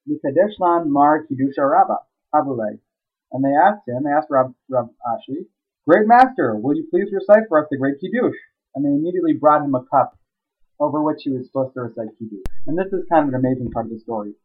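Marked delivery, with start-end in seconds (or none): 5.9-8.4 eager townspeople asking. Retold or imitated.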